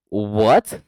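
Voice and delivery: rising, incredulous what; taken aback, pitch swinging up; shocked reaction. Retold or imitated. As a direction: blurt out a stunned question. Shocked reply to a revelation.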